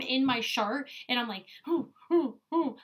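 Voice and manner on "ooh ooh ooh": short, higher-pitched "ooh" noises; mock-struggling oohs; imitated flustered hoots. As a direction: act out wriggling with little hoots. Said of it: "just moving around in my shirt".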